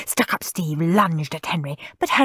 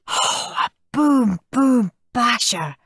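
beaming; 6 semitones higher than usual. A narrator's reading. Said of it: "beamed Henry".

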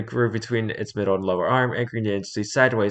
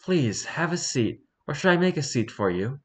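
chaotic gremlin voice; 5 semitones higher than usual. Acted. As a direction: play the smug little gremlin. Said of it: "I'm gonna give him the chaotic gremlin voice".

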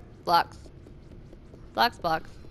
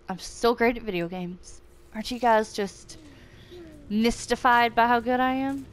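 sarcastic. Acted. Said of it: "Sarcasm. Learn it".

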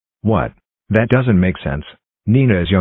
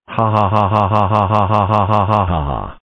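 mechanical, evenly repeated ha-ha laugh; hammed-up villain cackle; scheming laugh. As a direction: gloat with a long, stiff fake laugh. Gloating over revenge plan.

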